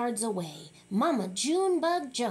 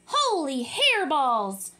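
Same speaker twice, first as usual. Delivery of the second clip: slow, louder astonished exclaim; 5 dB louder, slower than usual. Acted. Kitty boy exclaims at his huge head in the mirror. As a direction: gasp it out in wonder.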